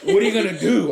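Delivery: can't stop laughing while telling it; giggling retelling. Real, not acted.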